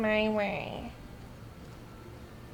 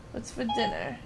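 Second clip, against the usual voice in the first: softer dinner line; 6 dB quieter than usual. Pretend. Repeating the line to his friend, softer. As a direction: say it almost to yourself.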